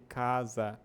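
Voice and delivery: "casa" read slowly, sound by sound; every letter sounded. Shown as a demonstration. Teacher shows Portuguese is read as written, fully pronounced. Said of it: "a gente vai ler".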